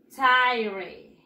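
careful English tire model. Shown as a demonstration. Teacher modeling tire for the class. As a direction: say tire slowly as an English word.

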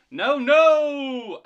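high, very loud cry of no; alarmed refusal. A narrator's reading. Toby answers the ghost at the door, alarmed. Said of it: "answered Toby".

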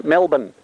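Melbourne as MEL-bn, no R sounded; short Australian Melbourne, R dropped; Aussie Melbourne. Shown as a demonstration. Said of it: "M E L B N".

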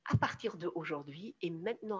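firm statement of resolve; decided. Shown as a demonstration. Coach modelling the moment you take the decision, firmly decided. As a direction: say it as a decision already made. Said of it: "quand tu prends la décision".

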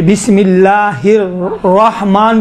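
الرحمن with heavy rounded r, like a w colour; slow tajweed demo of a dark rolled r in الرحمن; pronunciation variant demo. Shown as a demonstration. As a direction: recite الرحمن slowly, rounding the r toward waw. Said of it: "بھی صحیح ہے".

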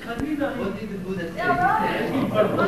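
slow, loud call from the crowd. Real, not acted. Listener loudly calling out a question to the teacher, slow and loud. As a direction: call it out across the hall, slowly. Audience member calls out question.

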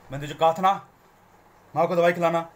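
the wrong way: shout like at a goon. Shown as a demonstration. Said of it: "एक गुंडे से नहीं बोल रहे हो". (गलत तरीका, गुंडे जैसी डांट)

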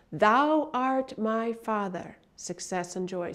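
slow, reverent opening line; slow devotional quote. Shown as a demonstration. Teacher quotes the affirmation's opening, slow and reverent. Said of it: "he starts out".

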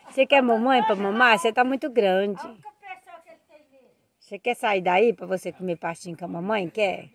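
soft coaxing talk to a calf. Real, not acted. Niece softly coaxing the big calf that still wants its mother. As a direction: coo gently at the calf. Talking to calves.

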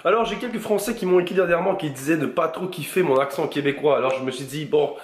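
mock accent from France; put-on French accent. Québécois vlogger answering French viewers who dislike his accent, put-on French accent. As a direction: imitate a metropolitan French accent. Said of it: "je vais carrément vlogger en français".

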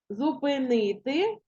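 Зупинити slowly, syllable by syllable, leaning on НИ; stress on third syllable. Shown as a demonstration. Teacher showing pupils the stress, Зупинити slow with weight on НИ. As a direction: spell out Зупинити by ear, stressing the НИ. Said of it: "зупинити наголос падає на".

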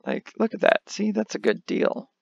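high pushy salesman pitch; car salesman voice. Acted. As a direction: sell it like a car dealer. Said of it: "an attempt at, like, a car salesman voice".

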